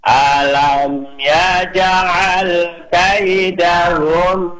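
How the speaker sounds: slow melodic tartil chant; teacher modelling tajwid recitation; Quran recitation. Shown as a demonstration. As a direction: recite it measured and sung. Recites again.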